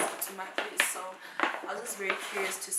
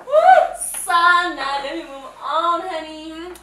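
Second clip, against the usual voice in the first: loud and high, calling out; shouting; 8 semitones higher, 19 dB louder, slower than usual. Real, not acted. Calling out to her friend Sana, loud. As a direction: holler at your friend.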